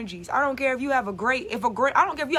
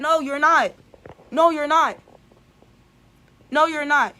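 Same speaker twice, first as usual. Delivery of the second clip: firm loud denial; 2 semitones higher, 5 dB louder than usual. Acted. Rebutting the self-blaming inner voice.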